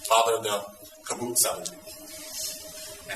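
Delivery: slow, prim self-correction; mock prim correction. Real, not acted. Teacher corrects swearing on camera, prim and slow. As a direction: say it slowly and coyly. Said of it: "Oops, sorry, I'm on camera".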